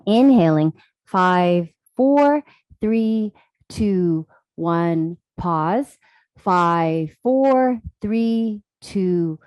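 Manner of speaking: measured count, each number drawn out and evenly spaced; guided breath count. Real, not acted. Yoga teacher counting breaths for the class, calm measured guidance. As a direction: pace their breathing, letting each count sink gently.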